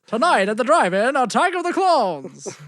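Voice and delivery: hammed-up drive-in trailer announcer; movie trailer announcer. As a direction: sell the B movie like an old drive-in ad.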